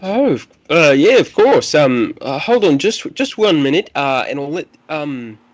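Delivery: high, loud, flustered Irish lilt; Irish accent. Acted. Priest asks visitors to hold on, flustered Irish accent. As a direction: stall the guests haltingly in an Irish accent. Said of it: "I'm going into an Irish accent there".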